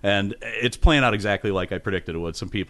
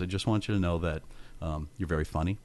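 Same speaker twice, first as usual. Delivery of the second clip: low, hushed, halting words of wisdom; quiet mock-profound advice, with pauses; solemn counsel; 5 semitones lower, 7 dB quieter than usual. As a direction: imitate a friend gravely taking someone aside. Retelling Joel's solemn private advice.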